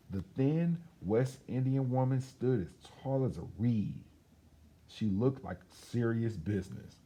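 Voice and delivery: put-on lively storybook reading for children; story narration. A narrator's reading. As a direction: tell it like a bedtime story to kids. Reads picture book aloud.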